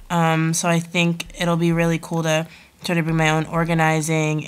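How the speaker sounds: stuffy nose, talking through congestion; nasal voice from a head cold; nasal whine. Real, not acted. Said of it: "sorry I sound really nasally right now".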